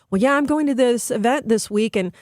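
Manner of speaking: playing the upset daughter, voice climbing; mock daughter. Mother voicing her daughter's upset about the event.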